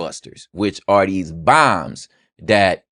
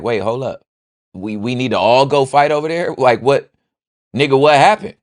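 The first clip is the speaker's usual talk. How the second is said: baffled pushback; 5 semitones higher than usual. Pretend. Homie baffled at the fight request.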